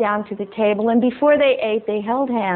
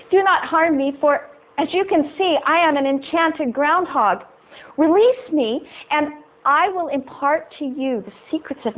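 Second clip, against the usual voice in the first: lightly raised, prim talking groundhog; 3 semitones higher than usual. Acted. Enchanted groundhog speaks to fisherman.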